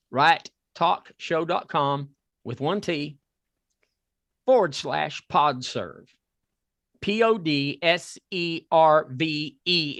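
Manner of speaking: measured read-out. Shown as a demonstration. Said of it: "if you can understand this Southern accent".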